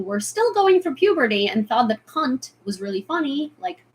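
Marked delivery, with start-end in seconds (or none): 2.1-2.5 "cunt" as British can't; English accent. Shown as a demonstration. Recalling college classmates' amusement, in an English accent. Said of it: "I had a quite English accent".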